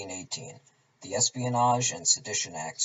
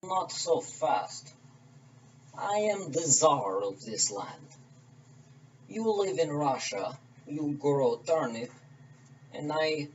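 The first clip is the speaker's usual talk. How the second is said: put-on Russian accent; 2 semitones higher than usual. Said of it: "along with me doing accents".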